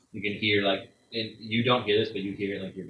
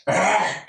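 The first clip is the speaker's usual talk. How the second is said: loud, high startled-beast cry; sudden loud cry in the werewolf's role; high burst of a yell; 12 semitones higher, 11 dB louder than usual. Acted. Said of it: "he's looking at you like".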